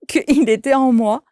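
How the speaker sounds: amused laugh bubbling into the line; real laughter spilling over the words. Real, not acted. Laughing at a spirit taking over.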